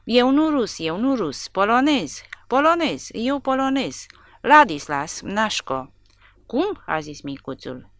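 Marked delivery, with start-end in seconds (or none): 0.0-5.9 louder, higher frantic insisting; captured man desperately denying he is Russian, frantic; frightened pleading. A narrator's reading. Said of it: "ca un iepure speriat". 6.5-6.8 surprised. A narrator's reading. Surprised question.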